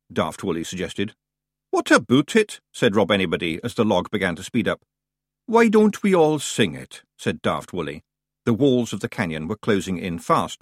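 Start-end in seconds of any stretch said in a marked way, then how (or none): 1.7-2.6 high, loud Scottish pixie; Scottish accent. Acted. Rob Anybody replies. 5.5-7.0 high, slow eager Feegle; eager wee Scottish voice; Scottish accent. Acted. Daft Woolly suggests.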